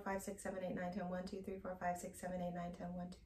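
counting on one exhale. Shown as a demonstration. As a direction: let the count die away as the air runs out. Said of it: "now we're going to add voice".

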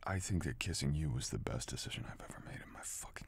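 soft whispered confession; tender confession. Acted. Partner softly confessing to girl about the kiss. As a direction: whisper it like a vow.

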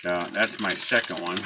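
talking around pipe stem; pipe in mouth. Real, not acted. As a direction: pipe clenched in teeth. Seen 3: Pipe stem clenched in his teeth throughout the labelled words.

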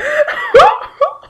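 high, loud fake sobbing; hammed-up burst of sobs; acted loud sob. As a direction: pretend to sob loudly. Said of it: "I feel like I should be act".

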